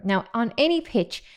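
ordinary talk, nothing marked

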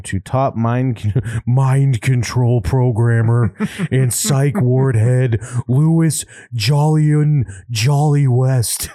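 slow, laughing through words; laughing while reading. Real, not acted. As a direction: read it slow, barely holding a laugh.

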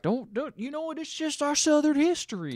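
high, strained put-on preacher voice. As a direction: plead it in a very high voice. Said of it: "the preacher's like".

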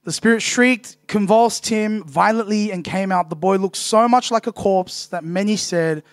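emphatic scripture reading; deliberate, dramatic Bible reading; reading with conviction. Real, not acted. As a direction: read the verse out with oomph. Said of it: "Let's read with some oomph, some conviction".

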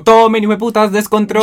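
put-on rowdy drunk. Describing their drunk self to friends, rowdy drunk cry. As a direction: act the drunk egging everyone on. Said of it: "soy un borracho muy, como".

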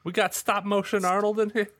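mock amazement. Acts out reaction to choppy effects.

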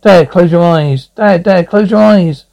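rising panicked cries of Dad; frightened child calling out. Acted. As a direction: call out to your father in growing panic. Boy calling to dying father.

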